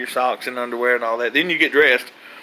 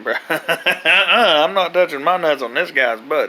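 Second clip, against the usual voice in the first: slow, laughing through the refusal; laughing protest; 4 semitones higher than usual. Retold or imitated. Inmate laughing at the officer's order in his head, amused refusal. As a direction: laugh while refusing, slowly. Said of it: "And I was thinking".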